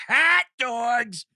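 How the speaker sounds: drawn-out ballpark vendor cry, last call stretched slow; hot dog vendor. Retold or imitated. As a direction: bellow it up the stands like a hot dog hawker. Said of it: "coming down the staircase at the stadium like".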